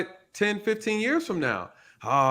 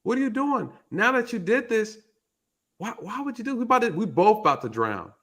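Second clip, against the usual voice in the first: frog pitched up in alarm; lightly voiced panicked frog, higher; a hint of a frightened frog, higher; 5 semitones higher than usual. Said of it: "the frog is like".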